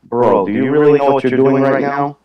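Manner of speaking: lightly put-on Russian accent; understated Russian tough-guy accent. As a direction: warn a stranger in a Russian accent. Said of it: "go right to the Russian accent".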